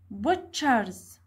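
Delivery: "Butchers" with stress on BUT; stressed first syllable. Shown as a demonstration. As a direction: press on the BUT of "Butchers", falling away. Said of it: "Where is the stress syllable?".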